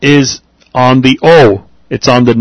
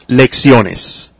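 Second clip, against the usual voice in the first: lecciones stressed on the next-to-last syllable, O. Shown as a demonstration. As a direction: slowly say lecciones, leaning on the O. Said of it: "the stress is on the next to the last syllable".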